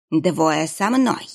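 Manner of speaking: very slow, clipped command; curt order. Acted. Monk orders two archers to follow, slow command. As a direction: give the order heavily and slowly. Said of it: "приказал он".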